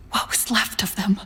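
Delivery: hushed, breathless whisper of dread; whispered to herself in horror. Acted. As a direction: barely voice the words, shaken. Grieving over dead scientists.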